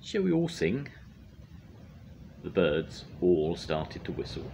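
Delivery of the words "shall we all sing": high, eager little bird. Acted. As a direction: call out like a small bird.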